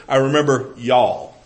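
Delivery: "I remember y'all" in a lightly drawled Texas accent, y'all as one syllable; "I remember y'all" said like a folksy Texan preacher. Shown as a demonstration. Preacher imagining Paul from Texas, mild Texas drawl. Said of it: "If Paul was from Texas, he would say".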